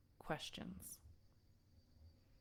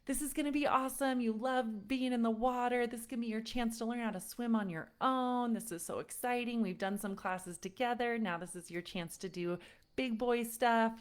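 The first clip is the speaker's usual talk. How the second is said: put-on higher, bright encouragement to a nervous child; upbeat pep talk; 4 semitones higher than usual. Mom cheering on her four-year-old before swim lessons, upbeat and coaxing. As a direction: hype him up like it's the best day ever. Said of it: "I tried to prep him really nicely for it".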